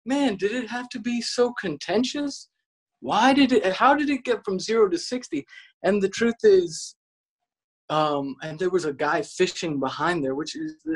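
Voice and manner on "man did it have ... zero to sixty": higher-pitched aggrieved appeal; mock-earnest plea; retold pleading protest. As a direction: reason with them, voice lifted. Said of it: "and I was like".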